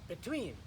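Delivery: "Between" stressed on its second syllable, be-TWEEN. Shown as a demonstration. Teacher models for learners, "Between" stressed on "tween". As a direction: lift the "tween" of "Between", then fall. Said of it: "accent is on the second syllable".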